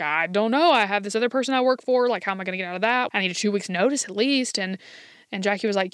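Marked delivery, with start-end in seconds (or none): 0.0-4.6 rushed, flustered retelling of panic; frantic. Retold or imitated. Kathy panicking to Jackie about her old job, fast and flustered. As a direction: blurt it out fast like you're cornered. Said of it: "Kathy kinda frantically is like".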